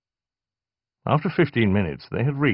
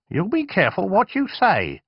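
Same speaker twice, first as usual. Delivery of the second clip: snapped; 12 semitones higher than usual. Acted. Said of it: "she snapped".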